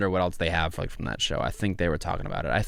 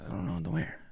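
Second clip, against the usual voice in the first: whispered helpless self-quote; 11 dB quieter, faster than usual. Retold or imitated. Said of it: "I'm like".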